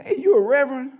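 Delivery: high and loud sudden call; a stranger at the gas pump calling out to him. Retold or imitated. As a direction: shout the question across the pump.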